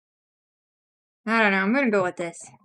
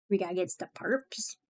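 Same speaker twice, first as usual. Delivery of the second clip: breathy whispered aside; 3 semitones lower, 9 dB quieter than usual. Real, not acted. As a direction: whisper it conspiratorially.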